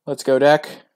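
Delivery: loud hopeful cheer rising on deck; loud rising call to the deck. Real, not acted. Cheering for the draw.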